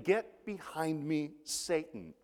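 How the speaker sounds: slow, understated rebuke, phrase by phrase; measured rebuke. Retold or imitated. Jesus rebukes Peter before the twelve, slow and restrained. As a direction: rebuke deliberately, without raising the voice. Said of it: "turns to the twelve and rebukes Peter".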